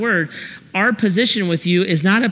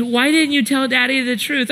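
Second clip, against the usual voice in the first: higher, coaxing mom voice; mock-soothing, pitched up; good-cop mother; 6 semitones higher than usual. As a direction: imitate a mother gently questioning a crying child. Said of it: "she shifts to the good cop".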